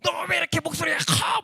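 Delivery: high-pitched scolding shout; old woman yelling. Retold or imitated. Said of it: "막 소리를 지르는 거예요". (할머니가 호통치듯 높게 소리치기)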